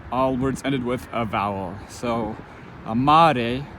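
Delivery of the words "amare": "amare" said ah-MAH-reh, stress on the second syllable; Latin amare. Shown as a demonstration. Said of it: "Latin and Spanish".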